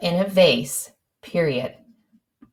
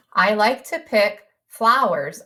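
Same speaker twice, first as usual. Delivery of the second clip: slow dictation; slower than usual. Shown as a demonstration. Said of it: "I wrote the word flowers here".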